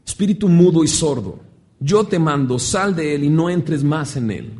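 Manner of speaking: firm command, acted; rebuke. Jesus rebukes the deaf and mute spirit, commanding. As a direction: order it out with authority. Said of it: "reprendió al espíritu inmundo".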